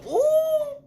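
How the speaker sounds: high loud squealing laugh-cry; shrieking laugh. Retold or imitated. Telling viewers how she reacted, a loud high squealing laugh.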